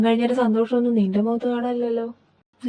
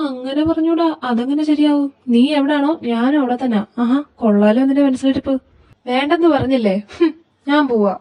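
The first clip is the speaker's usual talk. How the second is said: higher-pitched squabbling; miffed bickering between close friends; indignant protest; 4 semitones higher, 3 dB louder than usual. Acted. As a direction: argue back, pitch lifted. Friends quarrel, one storms off.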